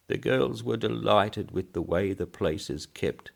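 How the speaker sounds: put-on high thin old man's pipe; piping old voice. Old man praising the cemetery, piping. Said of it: "piped the old voice".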